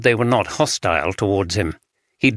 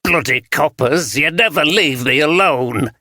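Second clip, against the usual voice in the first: put-on Yorkshire accent; 5 semitones higher than usual. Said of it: "spoke in the broad Yorkshire accent".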